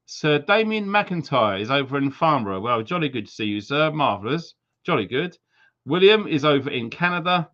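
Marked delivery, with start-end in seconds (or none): 2.6-5.4 light mock upper-class English accent, quick; jolly good said like a lightly hammed-up toff; posh English accent. Greeting Sir Damien, in a light mock posh English accent. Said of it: "Sorry about my accents".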